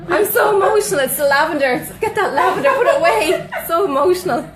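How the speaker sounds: high, loud, giggly mock sob-talk, laughing through it. Real, not acted. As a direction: play up being overwhelmed while cracking up. Laughing at an emotional moment live.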